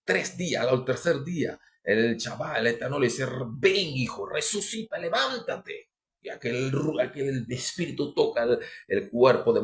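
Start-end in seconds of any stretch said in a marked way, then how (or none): 3.6-5.9 rising, higher call to rise up; voicing God's call. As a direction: lift the voice as God calls the son. God voiced calling Yeshua. (voz de Dios llamando, cada vez más aguda)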